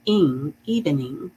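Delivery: ing in evening said clearly as ing; ing sound. Shown as a demonstration. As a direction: stress the ing ending of evening. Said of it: "I N G has that ing sound".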